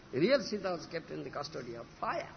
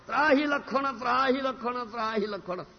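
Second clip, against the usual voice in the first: raised, higher cry of distress, retold; retold cry for help; 3 semitones higher, 4 dB louder than usual. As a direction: call out for rescue, storyteller's imitation. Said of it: "shouted, cried, the voice of".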